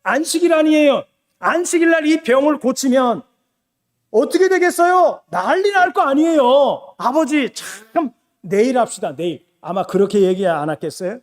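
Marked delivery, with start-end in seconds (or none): 0.0-9.4 raised, coaxing plea to the father; pleading son. Retold or imitated. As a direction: gently try to talk the father out of it. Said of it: "이렇게 말했을 거예요".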